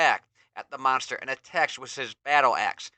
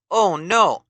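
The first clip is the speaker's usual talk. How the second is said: sudden shocked cry, higher and louder; alarmed gasp; 6 semitones higher, 8 dB louder than usual. A narrator's reading. Narrator gasps at vision.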